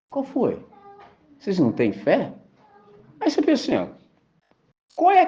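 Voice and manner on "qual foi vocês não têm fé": softer, calm challenge; mild rebuke. Retold or imitated. Jesus calmly questioning the disciples' faith, soft. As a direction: gently call out their lack of faith. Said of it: "quando ele fala assim".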